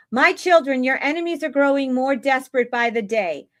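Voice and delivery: lightly performed prophetic proclamation; Julie. Acted. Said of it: "read it just like Julie reads it".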